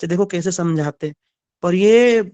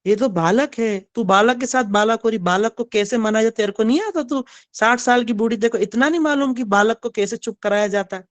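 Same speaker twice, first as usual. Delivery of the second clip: scolding elder; 3 semitones higher than usual. Acted. Old Paurnamasi scolds Yashoda.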